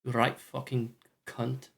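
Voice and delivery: slow, quiet Scottish accent swear; a lightly voiced Scottish insult, drawn out slowly; understated Scottish accent muttered slowly. Shown as a demonstration. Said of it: "They're Scottish".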